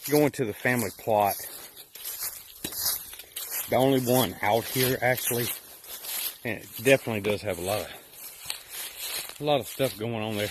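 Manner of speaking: winded from the hill; breathless, pausing to catch breath. Real, not acted. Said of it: "Sorry about, you know, being out of breath".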